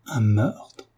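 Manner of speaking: aghast repeat, held in volume; rising, horrified disbelief; shocked exclamation. A narrator's reading. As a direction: recoil at the very word. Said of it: "s'écria David en pâlissant".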